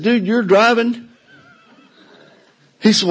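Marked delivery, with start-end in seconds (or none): 0.0-1.1 incredulous reply. Retold or imitated. Pilot asks where to go.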